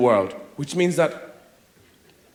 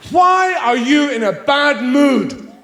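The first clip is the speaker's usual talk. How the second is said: loaded question; 6 semitones higher, 4 dB louder, much slower than usual. Retold or imitated. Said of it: "fiendishly clever".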